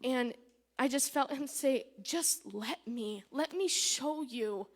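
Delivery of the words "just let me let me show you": slow, gently voiced plea; tender reassurance. God reassuring a struggling believer of his love, tender. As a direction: reassure tenderly, drawing the words out slowly.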